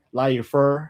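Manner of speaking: 来一份 said with a Beijing R at the end; Beijing accent. Shown as a demonstration. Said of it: "the R at the end makes it sound so much more smoother".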